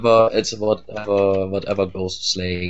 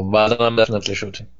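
ordinary talk

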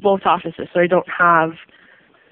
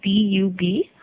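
spelling it out; 4 dB quieter, slower than usual. Real, not acted. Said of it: "their last name is Dubois".

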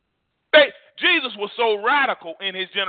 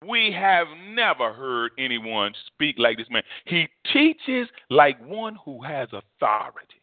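slow, lowered, deliberate delivery; awed testimony; 4 semitones lower, slower than usual. Retold or imitated. Preacher repeating officers' report about Jesus, solemn awe. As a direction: draw it out with solemn weight.

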